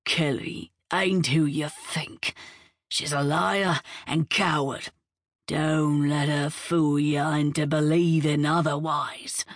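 mild menacing snarl in her ear; snarled threat. Acted. Blythe holding Julia, mildly snarling a warning in her ear. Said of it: "snarled in her ear".

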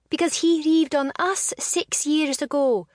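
snapped. A narrator's reading. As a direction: bite it back at him. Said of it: "she snapped".

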